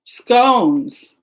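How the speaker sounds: "Scones" with a hard long O, like "skohns". Shown as a demonstration. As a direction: lean on the round O in "Scones". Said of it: "with a hard O".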